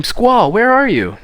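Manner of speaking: high, loud, drawn-out cry; hammed-up scream for someone lost; acted scream. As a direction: call out desperately, stretching the words. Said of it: "So I scream".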